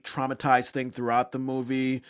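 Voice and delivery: ordinary delivery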